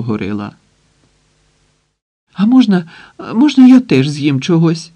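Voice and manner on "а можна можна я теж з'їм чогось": higher, louder, begging tone; pleading request. A narrator's reading. Hostage begging the terrorist for food, pleading. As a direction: beg for a bite like a frightened hostage. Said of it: "попросив Пустовоєв".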